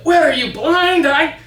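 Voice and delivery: the witch snapping then flattered; lightly voiced witch, flattered. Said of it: "And she said".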